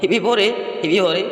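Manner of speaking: high-pitched imitation of a hurrah; mock cheering. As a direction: parody of a jubilant crowd. Mimics a celebratory cheer.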